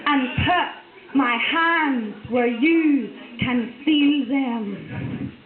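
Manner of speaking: poem recital. Acted. Poet reciting her new poem to the audience, measured. Performs a spoken word poem.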